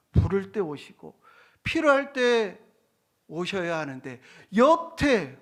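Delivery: acted indignant challenge; scoffing. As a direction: argue like a jeering unbeliever. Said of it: "이렇게 부정하고 조롱했다라는".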